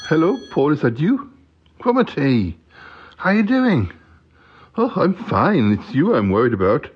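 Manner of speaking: high, chirpy puppet voice; Cromitty's voice. Pretend. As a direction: pitch it up as the little friend. Puppet friend Cromitty phones Paul.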